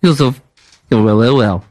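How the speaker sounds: put-on confused French-accented English; mock broken English. Prank caller confused about rooms, French-accented English. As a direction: fumble the words like a lost tourist.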